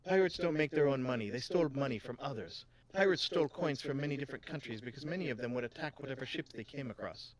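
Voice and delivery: lightly Jamaican-tinged shopkeeper; a hint of Jamaican accent while explaining; improvised Jamaican lilt; wobbly Jamaican accent. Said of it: "She's not Jamaican either, but I'm going with it".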